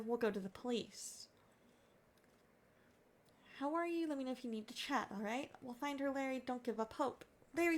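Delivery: lightly voiced concerned friends; acted worried friends. Friend reassuring a husband whose wife vanished, gently.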